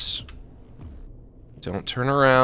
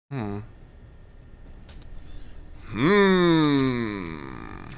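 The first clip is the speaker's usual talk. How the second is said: cartoon hmm. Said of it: "I say, "Hmm," while I scratch".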